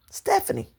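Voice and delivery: whispered name. Retold or imitated.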